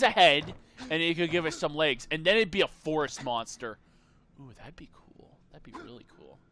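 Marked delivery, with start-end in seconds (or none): 4.4-6.4 hushed, whispered wonder; whispered awe. Real, not acted. Streamer imagining a forest monster, awed whisper. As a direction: breathe it out in awe. Dreamy aside about monster.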